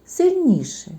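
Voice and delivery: «сильніше» jumps high; emphatic. Shown as a demonstration. Teacher stressing «сильніше» for kids. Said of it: "вимовляється голосніше".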